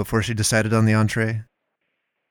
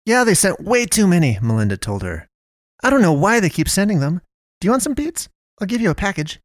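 much higher, pushy friendly offer; chatty Melinda; 9 semitones higher than usual. Acted. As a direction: offer the beets brightly. Melinda voiced high.

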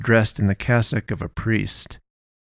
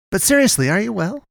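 much higher, probing question; prying Melinda; 11 semitones higher than usual. Acted. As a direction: press her gently but nosily. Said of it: "Melinda pried".

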